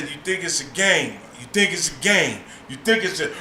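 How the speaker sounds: low, soft, repeating threat; quiet menace. Retold or imitated. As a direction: mutter it darkly before the blast.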